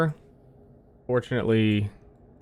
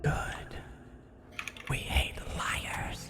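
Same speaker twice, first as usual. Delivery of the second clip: hushed, breathless creature whisper; whispering rat; 11 dB quieter, much slower than usual. Acted.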